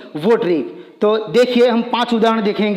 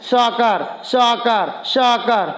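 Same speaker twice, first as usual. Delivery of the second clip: fast; much slower than usual. Shown as a demonstration. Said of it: "तो यहाँ भी तुम्हें फास्ट बोलना है".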